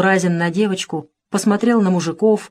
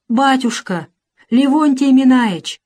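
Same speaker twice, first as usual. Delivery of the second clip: pleading; 5 semitones higher, 3 dB louder than usual. Acted. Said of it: "молит мужик".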